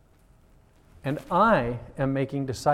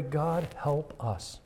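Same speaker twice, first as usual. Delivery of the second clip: slow hushed prayer; 6 dB quieter, much slower than usual. Retold or imitated. Quiet retold prayer.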